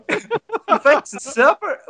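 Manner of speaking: put-on slow, high Southern Filipino accent. Cousin inviting Jay to supper, Southern Filipino accent. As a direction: imitate a Filipino drawling like a Southerner. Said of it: "there's a Southern Filipino".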